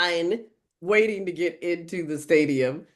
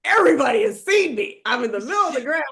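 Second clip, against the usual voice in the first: retold protest; 4 semitones higher, 3 dB louder, faster than usual.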